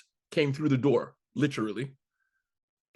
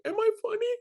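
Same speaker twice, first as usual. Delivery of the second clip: self-doubt; faster than usual. Acted. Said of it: "Why wouldn't they listen".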